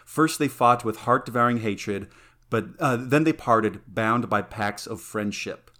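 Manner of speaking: measured epic verse reading; reading a poem. Acted. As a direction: read it like an old epic. Reads Iliad translation aloud.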